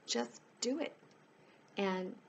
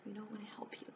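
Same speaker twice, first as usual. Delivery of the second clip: "I wanna help you" breathed in a much softer whisper; 2 semitones higher, 10 dB quieter, faster than usual. Real, not acted. Repeats offer, drops to whisper.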